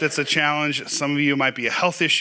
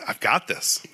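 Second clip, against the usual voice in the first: whispered thought; 2 semitones lower, slower than usual. Acted. Imagined confident inner thought.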